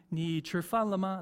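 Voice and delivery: a light demo of Ni chi fan le ma in Mandarin; Mandarin greeting. Shown as a demonstration. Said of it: "That's how you say it in Mandarin".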